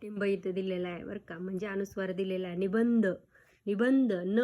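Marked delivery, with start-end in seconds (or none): 2.6-4.4 loud, emphasised n sound in निबंध; न चा उच्चार. Shown as a demonstration. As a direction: punch निबंध, then isolate its न. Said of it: "नचा उच्चार झाला ना". ("निबंध" मधला न जोर देऊन)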